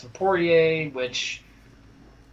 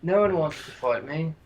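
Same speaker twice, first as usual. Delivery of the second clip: mock Birmingham accent. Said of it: "he's Leon Edwards because he's like".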